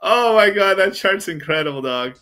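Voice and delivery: high loud exclamation, easing down; amused disbelief. Real, not acted. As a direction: exclaim high and loud after a laughing fit. Reacting to chart after laughing fit.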